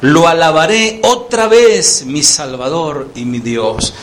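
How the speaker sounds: preacher voicing David's cry of praise; exclaiming praise. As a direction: proclaim the praise, then let it sink.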